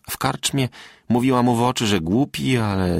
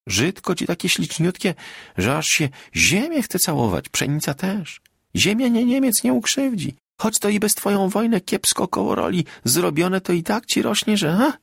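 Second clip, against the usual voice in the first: higher, tender, consoling lilt; tearful smile; 6 semitones higher than usual. A narrator's reading. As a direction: comfort him with fond wonder at the crops. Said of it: "uśmiechnęła się przez łzy". (czułe pocieszanie przez łzy)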